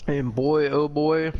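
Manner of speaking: talking while chewing; words round a bite of food; mouth full. Real, not acted. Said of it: "excuse me, I'm eating right now".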